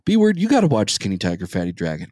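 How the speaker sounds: mock a friend's pestering, dropping off at the end; nagging friend. Co-host imitating his friend's movie pestering, lightly nagging. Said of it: "I would hear".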